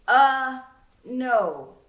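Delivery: flustered denial. A narrator's reading. Narrator denies the house.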